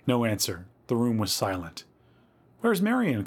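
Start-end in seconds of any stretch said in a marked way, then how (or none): 2.6-3.2 much higher, worried call; alarmed calling. A narrator's reading. Louise to the cellar party, calling in alarm. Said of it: "called Louise".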